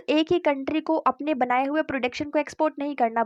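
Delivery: ordinary talk, nothing marked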